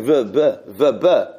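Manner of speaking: v with lips and teeth, b with closed lips, alternating v, b; v versus b. Shown as a demonstration. Teacher contrasting the v and b sounds. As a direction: contrast v and b crisply. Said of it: "You can't run into it".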